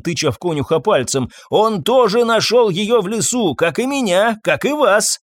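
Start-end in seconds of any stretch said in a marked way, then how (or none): 1.5-5.2 accusing shout. Acted. Master to doctor against the groom, accusing shout. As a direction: keep hammering the suspicion home.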